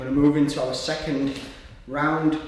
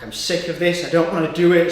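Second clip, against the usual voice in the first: put-on pissed-off teenager; 2 semitones higher, 5 dB louder, faster than usual. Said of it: "like, a pissed off teenager".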